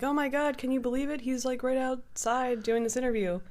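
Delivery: mock fan excitement; imitated amazement. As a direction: act out an amazed bar crowd. Imitating the amazed bar crowd.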